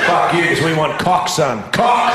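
slow, emphatic mock shout; hammed-up defiance; defiant retort. Acted defiant retort to straight men.

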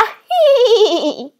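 high, loud witch cackle; shrill creature laugh; harpy cackle. Acted. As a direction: cackle with cruel delight.

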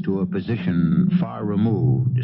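measured, even storytelling; radio host narration. A narrator's reading. Host setting up the charter boat scene, calm narration. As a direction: set up the scene for listeners.

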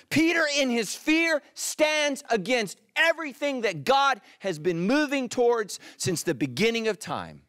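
loud, high-pitched preaching that gradually comes down; impassioned preaching. Real, not acted. Preacher warns church what Peter's fear did, impassioned shout. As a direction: proclaim it at full force, easing at the end.

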